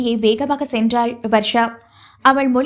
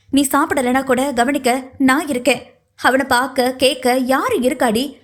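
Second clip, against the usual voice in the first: a mother's raised, reproachful tirade; scolding. Acted. Mother berates her daughter for ignoring her nephew, raised reproachful voice. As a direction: scold her for hurting him. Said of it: "வசைப்பாடி விட்டு".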